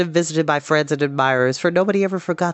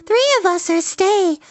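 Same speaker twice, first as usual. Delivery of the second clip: very high, slow tiny creature; small voice; 4 dB louder, slower than usual. A narrator's reading. Baby spiders telling Wilbur they are staying, small high voice. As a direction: squeak it out, drawing out the words. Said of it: "he heard a small voice".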